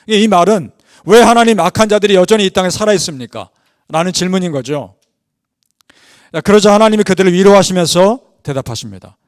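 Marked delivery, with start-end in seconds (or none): 1.1-3.5 raised, louder questioning cry. Retold or imitated. Martyrs question God about the wicked still living, crying out. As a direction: press the question upward to God. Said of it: "라고 외칩니다".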